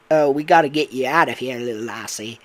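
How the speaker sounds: a hint of urgent mock Cockney; Eclipse, Cockney accent. Eclipse getting Cassie out, mock Cockney. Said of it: "And it'd be Cockney accent".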